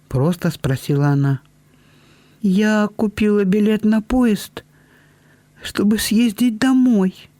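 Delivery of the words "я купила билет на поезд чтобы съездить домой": babbling. A narrator's reading. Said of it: "пролепетала Белинда".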